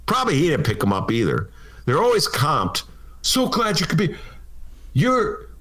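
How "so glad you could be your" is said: fawning restaurateur. Retold or imitated. Fawning restaurateur to Madam Mayor.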